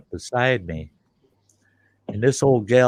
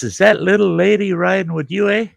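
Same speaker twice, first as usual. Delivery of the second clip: high, louder Yooper man with eh; Yooper son voice; 10 semitones higher, 4 dB louder than usual. Retold or imitated. Son asking the driver about his passenger, high Yooper voice. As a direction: do the local son's voice. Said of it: "he goes".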